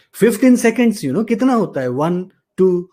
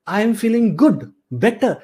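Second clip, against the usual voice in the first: higher, upbeat answer; positive self-check; 5 semitones higher, much slower than usual. Shown as a demonstration. Coach modelling a good answer to a self-check, upbeat. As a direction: say it like things are going well.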